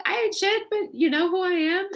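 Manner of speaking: high, laughing and tickled; laughing disbelief. Retold or imitated. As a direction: squeal it, laughing at yourself. Her thought about young fans.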